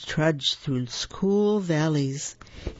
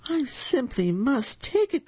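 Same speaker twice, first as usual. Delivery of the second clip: eager cry; 9 semitones higher than usual. A narrator's reading. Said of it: "cried the very old man".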